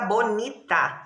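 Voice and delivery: "bonita" slowly in three beats, bo-ni-ta; split into syllables. Shown as a demonstration. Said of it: "Quantas vezes eu abro a boquinha". ("bonita" devagar, separando as sílabas)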